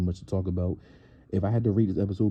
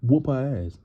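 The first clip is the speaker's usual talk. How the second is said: higher, louder call to fight back; urging shout; 5 semitones higher, 3 dB louder, slower than usual. Retold or imitated. Urging Natalie to hit back, loud call. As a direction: yell it like shouting at the TV. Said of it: "I'm like".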